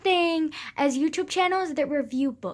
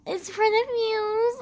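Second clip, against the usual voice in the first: laughing; 5 semitones higher, slower than usual. Real, not acted. Joking about her wet eyes.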